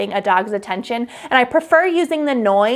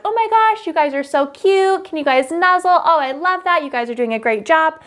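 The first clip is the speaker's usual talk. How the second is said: much higher, bubbly, gushing praise; excited hype voice; 7 semitones higher than usual. Shown as a demonstration. Photographer hyping up a couple during a shoot, excited. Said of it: "I might be a little bit more excited".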